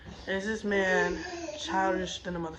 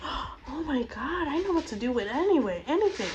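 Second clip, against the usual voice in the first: mock dazzled girl; 6 semitones higher than usual. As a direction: play the swooning gold-digger, hamming it. Mocking a woman impressed by money.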